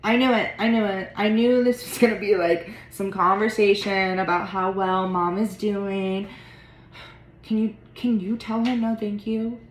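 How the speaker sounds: loud, bitter, fed-up; angry outburst. Acted. Sibling refusing to hear about mom, loud and angry. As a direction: snap back in protest.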